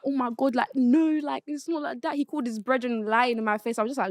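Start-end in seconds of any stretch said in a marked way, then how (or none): 0.0-2.2 higher-pitched mock pleading; sad baby imitation. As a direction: whine lightly like an upset baby. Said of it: "it was like a sad baby".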